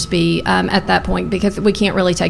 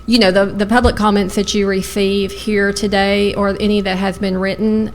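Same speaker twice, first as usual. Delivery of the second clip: talking while chewing gum. Real, not acted. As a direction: speak around a piece of gum. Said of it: "I just put a piece of gum in my mouth".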